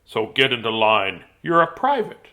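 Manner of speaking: loud, booming military speech; forceful battle address, hard emphasis; bellowing general. A narrator's reading. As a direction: bellow it like a general rallying troops. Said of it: "He bellowed".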